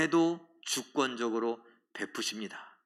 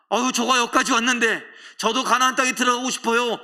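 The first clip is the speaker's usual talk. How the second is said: pleading; 6 semitones higher, 6 dB louder than usual. Acted. Moses voiced pleading with God.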